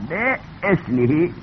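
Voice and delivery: به اسمه spelled out slowly with the hamza. Shown as a demonstration. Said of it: "با همزه".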